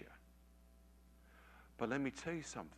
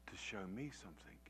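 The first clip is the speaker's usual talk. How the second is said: whisper; 5 dB quieter than usual. Real, not acted. Hushed revelation aside.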